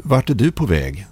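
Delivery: mild narrated stammer with a halting start. A narrator's reading. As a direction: falter after the first word, then ask. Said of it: "stammade jag".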